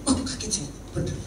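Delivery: normal talking voice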